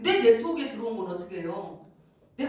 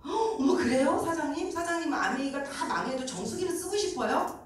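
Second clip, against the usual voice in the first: higher, theatrical gasp then a teasing pitch; mock gasp; 6 semitones higher than usual. Partner pretending shock to sell the water purifier, gasping high. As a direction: gasp big, then coax her.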